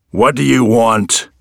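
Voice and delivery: rude holler. A narrator's reading. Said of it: "the man hollered rudely".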